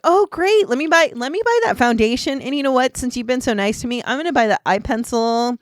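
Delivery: loud, high, bubbly spree of enthusiasm; mock delighted shopper. Customer rewarding nice rep with big purchase, excited. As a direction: pile on each request with showy delight.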